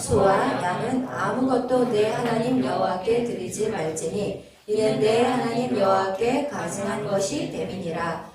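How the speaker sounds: measured, even-toned Bible reading; scripture reading. Real, not acted. Pastor reading the verse together with the congregation, scripture reading.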